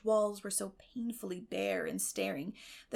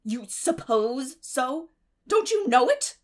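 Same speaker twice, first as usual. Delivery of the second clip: much louder and higher, slow and sharp; indignant; 4 semitones higher, 10 dB louder, slower than usual. Acted. Marilla to Matthew, indignant and much louder. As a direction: challenge him, rising in disbelief.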